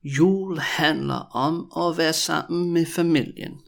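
measured, joined-up sentence; slow demonstration. Shown as a demonstration. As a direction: say it slowly for repetition. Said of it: "when I say it really slowly".

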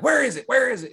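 high, loud frantic dad; mock freaking out. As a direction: play the dad panicking, voice shooting up. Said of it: "then the dad's freaking out".

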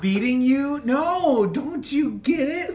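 high, loud laughing explanation. Real, not acted. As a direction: squeal through laughter.

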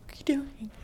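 barely audible whisper; mouthed words. Retold or imitated. Telling viewers what she said to boyfriend, mouthed whisper. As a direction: mouth it with almost no voice. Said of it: "I'm mouthing, sorry".

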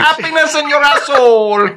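high-pitched mock-French repeat; comic French-accented punchline. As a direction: play up the French mispronunciation. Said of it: "You gotta love French".

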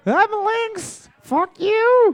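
put-on high, slow, drunk old man; town drunk. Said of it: "sounds like two old drunk men".

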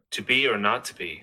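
American accent. Shown as a demonstration. Co-host doing Hamlet on request, American accent. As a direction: recite in a put-on American accent. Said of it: "do Hamlet as an American guy".

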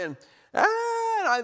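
high, drawn-out wail of frustration; exasperated cry. Retold or imitated. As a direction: let out a long high exasperated noise. Retelling his mounting stress.

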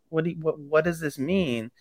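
lightly voiced shy girl, unsure; timid confusion. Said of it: "And she's like".

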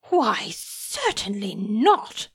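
slow, affronted denial; a mild touch of wounded pride; offended. Acted. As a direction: draw yourself up, stung by the question. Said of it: "Humphrey asserted, offended".

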